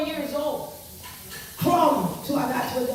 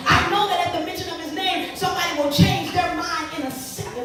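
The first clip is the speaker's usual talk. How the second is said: preaching build; 4 semitones higher, 3 dB louder than usual. Real, not acted.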